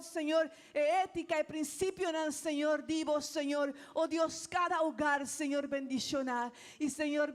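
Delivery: fervent congregational prayer, calling on the Lord; spoken prayer. Acted. Preacher praying for Aruba before the church, fervent prayer. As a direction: pray aloud for the island with growing fervour.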